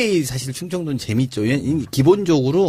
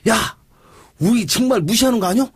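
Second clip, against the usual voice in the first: fired-up rant; 5 semitones higher than usual. Retold or imitated. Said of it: "열불 내면서 한 이십 분 쫙 일장연설".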